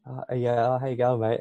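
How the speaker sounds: lightly imitated Aussie greeting; overplayed Aussie. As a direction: put on a mild Aussie mate accent. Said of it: "never overplay the Aussie anymore".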